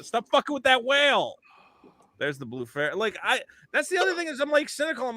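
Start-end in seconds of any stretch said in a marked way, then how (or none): 0.0-1.3 raised-pitch mock scolding in an everyday voice; Tom Hanks, accent dropped. Host mocks the actor late in the film, casual scolding. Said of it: "forgets how to do a German accent".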